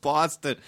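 "Boston" with a rounded "aw", like "Bawston"; Boston pronunciation. Shown as a demonstration. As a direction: echo the local "Baw-ston" for "Boston". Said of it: "It's B A W".

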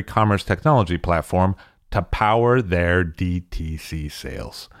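polished, measured podcast ad delivery; scripted host-read promo; sponsor ad read. Acted. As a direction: sell the sponsor with crisp, deliberate emphasis.

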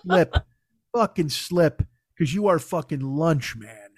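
a lightly voiced dog plotting lunch; hungry dog. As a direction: murmur it like a predator waiting. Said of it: "the dog is just going".

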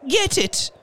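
high, breathless pant. Acted. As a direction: gasp the order out. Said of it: "she panted".

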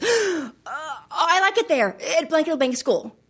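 mock-panicked little boy; panicked child. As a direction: stumble in, then force out false approval. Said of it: "this panic look on his face".

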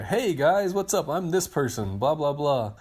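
high, bright-eyed fake greeting; mock eager intro. Mocking the intro he skipped, chirpy. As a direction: put on a chipper introduce-yourself voice.

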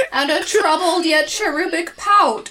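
mock gushing in cartoon tones; slightly hammed-up, high cartoon flourish; weird cartoon voice. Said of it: "cartoon voice would be like".

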